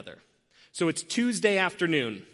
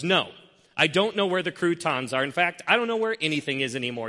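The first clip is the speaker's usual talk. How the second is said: louder, higher, put-out worker venting; huffy complaint; 3 semitones higher, 3 dB louder than usual. Retold or imitated. Walmart worker huffing at a customer, louder and annoyed. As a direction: grumble it out like he's fed up. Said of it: "stands up in a huff and goes".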